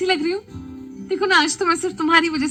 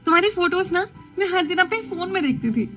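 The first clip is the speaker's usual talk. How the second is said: higher, gushing fangirl voice; excited gushing; 9 semitones higher than usual. A narrator's reading. Aditi gushing to Siddharth about his photos, excited. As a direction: gush over him with star-struck glee. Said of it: "excited होते हुए बोली".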